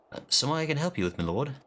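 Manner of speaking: lightly voiced eager common soldier; a hint of a rough-spoken grunt; voiced game character. Streamer reading a lowly soldier's greeting, lightly voiced.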